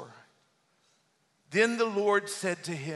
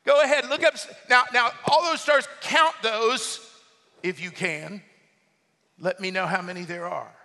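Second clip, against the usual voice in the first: sarcastic God; 3 semitones higher, 6 dB louder than usual. Acted. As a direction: goad the listener, then let it drop. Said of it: "Can you hear the sarcasm in God's voice?".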